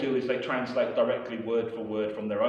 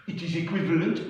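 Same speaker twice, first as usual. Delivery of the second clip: mock French student; 6 semitones higher, 3 dB louder than usual. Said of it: "Pascal arguing back".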